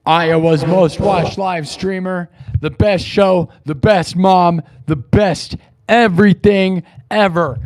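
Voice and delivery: loud, slow bragging; excited boast. Real, not acted. Streamer crowning himself to his chat, loud bragging. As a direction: announce it like a champion.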